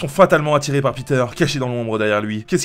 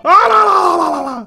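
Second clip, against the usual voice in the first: swooning sigh; 8 dB louder than usual. Acted. Heroine swooning over her outfit, high. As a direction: gush like a smitten girl.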